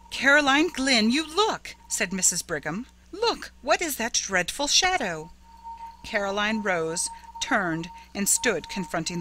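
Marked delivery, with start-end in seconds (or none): 0.1-1.7 high, loud, alarmed order; horrified demand. A narrator's reading. Horrified sister demands she look. 3.1-5.3 high, horrified question. A narrator's reading. Horrified at the shadow.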